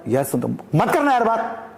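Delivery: high, distressed plea to be left alone; too upset to talk; very troubled. Shown as a demonstration. A deeply troubled man asking a friend for space, distressed. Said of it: "बहुत ज़्यादा परेशान है वो".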